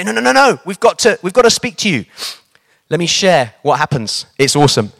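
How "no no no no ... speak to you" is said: put-on high, insistent old-lady voice; old ladies insisting they must speak to him now. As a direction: press him like two determined old ladies. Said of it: "And they say".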